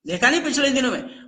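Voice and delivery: ordinary talk, nothing marked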